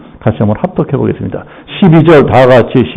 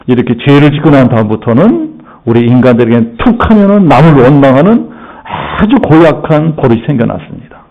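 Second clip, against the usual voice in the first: usual speaking voice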